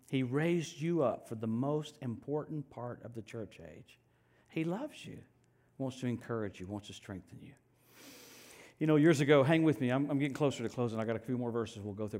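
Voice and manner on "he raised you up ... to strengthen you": soft intimate. Real, not acted. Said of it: "let me scream that".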